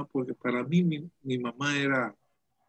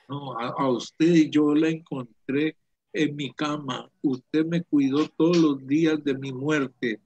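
heartfelt vow; 2 semitones higher, 5 dB louder than usual. Retold or imitated. Retold heartfelt vow to mother.

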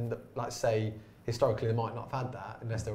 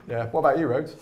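ordinary delivery

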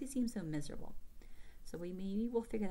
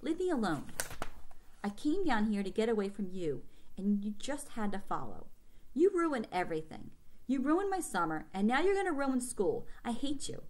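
mild angry outburst; 2 semitones higher than usual. Acted. Boy lashing out at sister.

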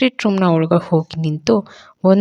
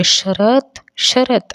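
calling Sharath once more to bring him running; calling out again; 5 semitones higher, much slower than usual. A narrator's reading. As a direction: call him back into the room. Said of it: "ಅಂತ ಕೂಗಿದ್ಲು".

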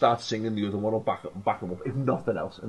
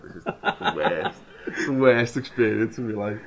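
slow, laughing mock misery; half-laughing lament; wry giggling complaint; laughing despair. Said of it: "I was just like".

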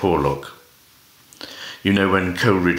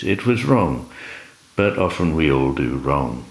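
poetry recital. Acted. Reader performing a poem by Stevie Smith, lilting recital. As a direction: read the verse aloud with big rises and falls.

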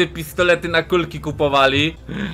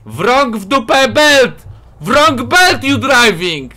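higher, slow, emphatic yell; shouted reproach; 6 semitones higher, 3 dB louder, slower than usual. Real, not acted. Driver to another player in the wrong lane, shouted reproach. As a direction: call it out slowly and raised in pitch.

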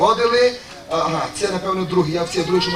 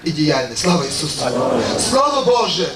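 solemn sermon address, lower and steady; preaching; 3 semitones lower than usual. Acted. Preacher addressing the congregation, solemn sermon tone. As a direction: proclaim it to the brothers and sisters.

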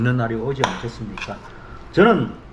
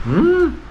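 savoring hum; 3 dB louder, much slower than usual. Real, not acted. Tasting food, savoring hum.

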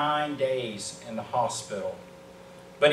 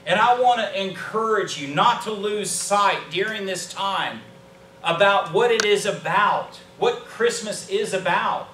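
higher, emphatic pulpit delivery; fervent preaching; 5 semitones higher, 5 dB louder than usual. Real, not acted. Preacher urging the church about what Christmas means, fervent. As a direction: drive each phrase home like a preacher.

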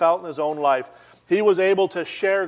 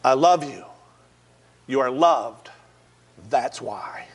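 lower, gentle first telling; tender reassurance; 4 semitones lower than usual. Retold or imitated. Officer hugging the man on the rooftop, gentle and low. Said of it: "Eric Nuttall said".

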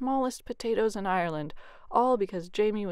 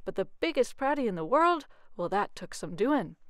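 bragging; 4 dB louder than usual. Acted. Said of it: "he bragged".

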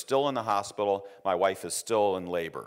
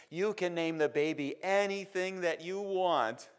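high, soft voice of the wife; wife's voice; 9 semitones higher, 4 dB quieter than usual. Retold or imitated. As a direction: play her light and high.

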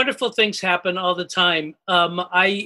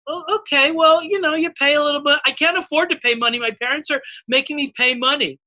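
put-on higher, fretful child; worried kid voice; 6 semitones higher than usual.

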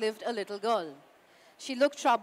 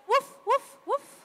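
high, loud yappy "woof woof"; dog barking; 13 semitones higher, 6 dB louder than usual. Acted. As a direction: bark it out like a little dog. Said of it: "the woman only heard".

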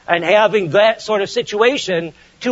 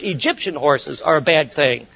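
ordinary delivery

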